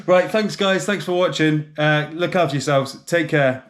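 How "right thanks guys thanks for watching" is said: laughing. Real, not acted. Still laughing after joke.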